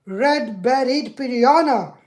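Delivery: loud, word by word with long gaps; loud voice command. Real, not acted. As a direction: spell it out for a stubborn machine. Repeats command to failing assistant.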